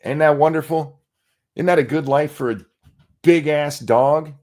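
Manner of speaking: sarcastic question, dragging out the last words. Real, not acted. Streamer scorning the dog's tiny space, sarcastic.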